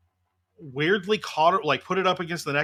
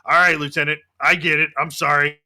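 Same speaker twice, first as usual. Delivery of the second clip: flight commander, conceding; 5 dB louder than usual. Acted. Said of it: "looks back at you and he goes".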